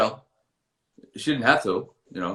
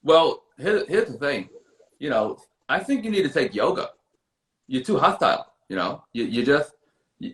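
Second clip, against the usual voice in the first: Russell Simmons impression. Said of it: "So Russell and Doctor".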